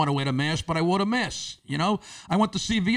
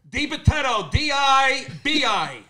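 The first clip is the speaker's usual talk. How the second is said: higher, slow, over-enunciated spelling; spelling out slowly; 6 semitones higher, slower than usual. Retold or imitated. Spelling name to deaf pharmacist.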